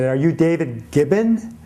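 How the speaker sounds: caller imitated with a light foreign accent; lightly accented question, name said as "Gibbon"; a hint of a foreign accent. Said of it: "this man called me who had this foreign accent".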